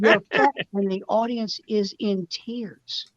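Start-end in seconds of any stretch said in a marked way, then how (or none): 0.0-0.5 laughing "You're fat" again, a bit louder; laughing repeat. Retold or imitated. Retelling Newhart's line, laughing. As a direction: chuckle it out.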